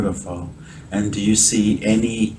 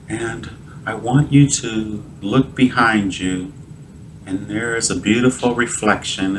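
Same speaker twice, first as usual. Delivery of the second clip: guided visualisation. Real, not acted. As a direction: gently guide a listener through an imagined scene.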